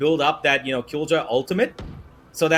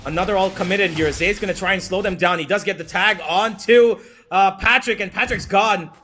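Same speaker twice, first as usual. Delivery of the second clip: esports caster; 5 semitones higher than usual. Real, not acted. Rising hype through the fight.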